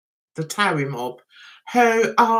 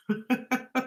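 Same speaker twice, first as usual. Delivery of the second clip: soft laugh; 10 dB quieter than usual. Real, not acted. Amused at sounding like a true Londoner, soft chuckle. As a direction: chuckle softly to yourself.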